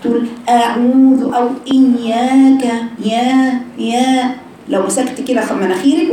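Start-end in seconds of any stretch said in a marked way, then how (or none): 0.5-4.3 long vowels pushed through the nose; nasalised madd. Shown as a demonstration. Teacher imitating a girl reading through her nose, nasalised vowels. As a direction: recite the stretched vowels nasally. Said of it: "بتجيب المدود كلها منين؟ من خيشومها".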